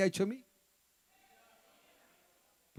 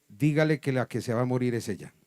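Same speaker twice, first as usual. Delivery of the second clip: voice of God; 4 semitones lower than usual. Retold or imitated. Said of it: "siento una voz y un poder sobrenatural".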